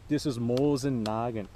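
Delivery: light put-on Russian accent; a hint of Russian accent on Nagant; mock Russian accent. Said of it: "start talking with a Russian accent".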